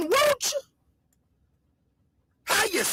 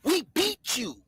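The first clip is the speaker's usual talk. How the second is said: mock British accent; 2 semitones lower, slower than usual. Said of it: "Sounding like a British".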